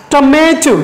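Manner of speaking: "Tomato" with a longer, stronger middle syllable; stress on MA. Shown as a demonstration. Teacher shows students the stress in "Tomato", middle syllable stressed. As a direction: lean on the middle of "Tomato", then let the end fall. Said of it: "we stress on ma".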